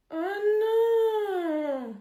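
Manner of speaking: high, pained "oh non" like a crushed fan; dismayed cry. Acted. Angel discovering the newcomer's awful record, dismayed cry. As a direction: cry out in shocked disappointment. Angel reads the bad file.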